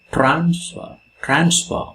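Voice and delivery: Transfer with trans stressed and fer light. Shown as a demonstration. Teacher showing students the first-syllable stress, trans stressed. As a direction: hit trans in Transfer, keep fer weak. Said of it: "the stress comes in the initial position".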